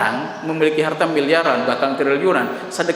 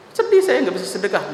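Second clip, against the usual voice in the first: tearful lament; 5 semitones higher than usual. Retold or imitated.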